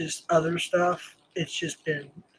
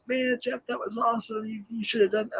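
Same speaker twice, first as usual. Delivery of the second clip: lightly voiced fans, higher and softer; imitating admiring fans; 5 semitones higher, 6 dB quieter than usual. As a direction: quote impressed viewers in a higher, quieter voice. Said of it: "a lot of people actually like".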